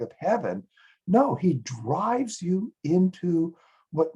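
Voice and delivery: worked-up, theatrical indignation; indignant storytelling. Acted. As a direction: plead the victim's case with outrage. Outrage on the angels' behalf.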